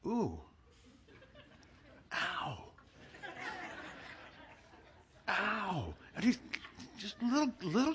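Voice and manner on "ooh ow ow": mock pained ows. Massage starts to hurt.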